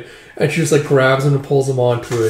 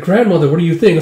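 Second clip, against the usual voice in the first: put-on little girl voice; 4 semitones higher, 5 dB louder, faster than usual. Girl asking grandmother.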